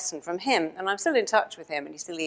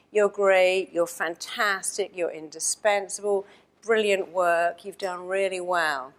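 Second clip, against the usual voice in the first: self-praise demo; slower than usual. Shown as a demonstration. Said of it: "tell yourself, what is it you want to hear".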